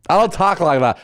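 high mock girl-speak denial; put-on sisterly protest; mimicking sister. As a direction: protest in your sister's exaggerated vowels. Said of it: "Why do you talk like this".

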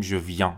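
"viens" ending in a nasal vowel; "viens" as vyan, n and s silent. Shown as a demonstration. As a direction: say the end of "viens" through the nose. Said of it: "مدل آواهاشون یکیه".

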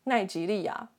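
asking through a laugh. Real, not acted. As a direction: joke while laughing. Joking question while laughing.

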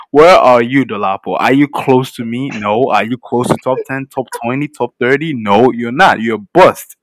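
mock him loudly; loud trash talk. Real, not acted. Teasing a rival loudly.

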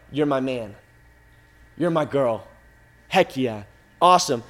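low, soft pat on the back; low-key approval. Acted. God quietly approving his children, low-key approval. Voices God's casual approval.

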